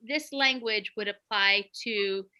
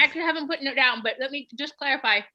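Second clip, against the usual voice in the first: talking around ice in mouth; 5 semitones higher, 4 dB louder than usual. Real, not acted. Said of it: "I'm eating ice, sorry".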